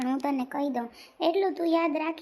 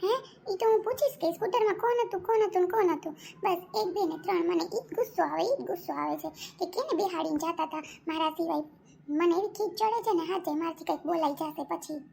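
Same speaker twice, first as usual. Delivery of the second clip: higher-pitched irritated complaint; annoyed; 3 semitones higher than usual. Acted. Girlfriend demanding who rode on his scooter, annoyed. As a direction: let the annoyance show without shouting. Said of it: "મને કેવો ગુસ્સો આવતો હોય".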